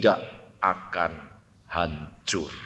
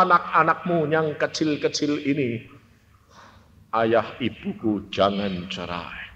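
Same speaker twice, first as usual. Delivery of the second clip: retold tearful prayer; 5 dB quieter than usual. Child praying that parents not divorce, mildly tearful plea. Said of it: "Kita berdoa dengan tangisan".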